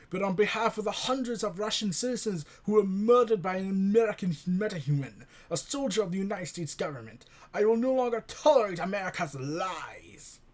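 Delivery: put-on light stereotypical spy-movie Russian accent; a hint of a Russian villain from spy films. Russian leader declaring war on America in a light spy-movie Russian accent. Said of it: "I'm going to attempt a Russian accent".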